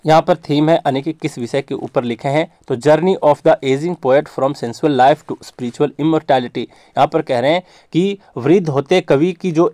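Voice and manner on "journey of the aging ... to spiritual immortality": slow, even English line for notes; slow dictation. Shown as a demonstration. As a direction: read it out slowly for copying. Teacher dictating the theme. (Theme धीरे-धीरे लिखवाना)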